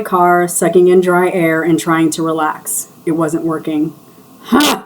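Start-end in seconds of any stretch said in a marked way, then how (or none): 4.4-4.8 scoffing huh. Acted. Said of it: "I shot out into the quiet interior".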